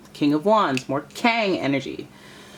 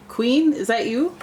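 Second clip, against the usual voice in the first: surprised; 8 semitones higher, 3 dB louder, slower than usual. Real, not acted. First card revealed.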